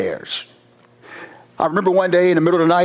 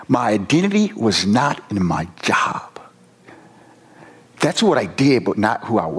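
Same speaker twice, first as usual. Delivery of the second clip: whispered; 4 semitones lower than usual. Real, not acted. Officer confessing to the audience, whispered slowly. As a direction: let it drop to a whisper, slowly. Quiet realisation in a testimony.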